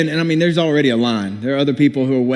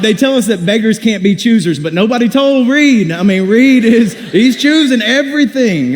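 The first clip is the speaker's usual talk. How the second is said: higher, louder indignant rant; exasperated; 7 semitones higher, 5 dB louder than usual. Retold or imitated. Preacher to his congregation, indignant at the choosy beggar.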